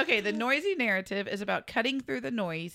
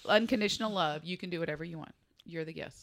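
show of charity; 4 semitones lower than usual. Pretend. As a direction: gently grant the guest free rein. We are gonna show you charity.

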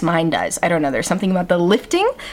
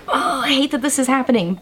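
voice breaking; 7 semitones higher than usual. Retold or imitated. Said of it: "my voice is clearly breaking".

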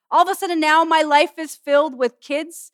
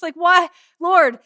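a raised, pleading cry of why to the Lord; preacher retelling her own exasperated plea, hammed up; mock cry to God; 5 dB louder, slower than usual. Preacher voicing her tired plea to God, raised and pleading.

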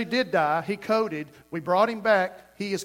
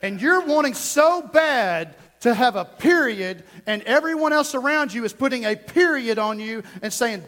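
emphatic preaching; 2 semitones higher, 4 dB louder than usual. Real, not acted. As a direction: lean hard on the key words. Preaching with force.

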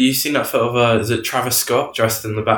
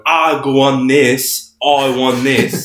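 Conor McGregor voice; 3 semitones higher, 5 dB louder, much slower than usual. Retold or imitated. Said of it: "championship belt on his shoulder going".

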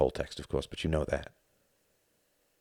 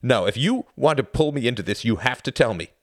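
harsh; 7 semitones higher, 7 dB louder than usual. Acted. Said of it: "his voice suddenly harsh".

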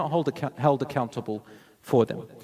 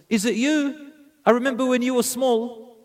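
higher-pitched, delighted recognition; pleasantly surprised; 9 semitones higher than usual. Retold or imitated. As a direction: retell a surprised greeting, pitched well up. Greets grown orphan girl in surprise.

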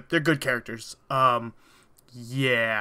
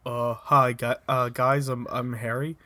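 slightly wrong copied voice; 3 semitones lower than usual. Retold or imitated. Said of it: "try to sound like Harry".

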